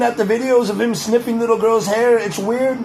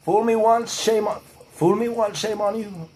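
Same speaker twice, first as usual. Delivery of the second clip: lightly voiced Bush drawl, trailing off; a hint of George W; 4 dB quieter than usual. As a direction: fumble the Bush quote. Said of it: "Bush kinda sounds like this".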